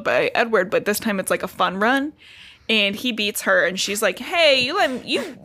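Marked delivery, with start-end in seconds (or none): 4.2-5.4 higher-pitched mock indignation; mild retold snapping. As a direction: act out a lightly snappy protest. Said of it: "I'm sorry for snapping at you".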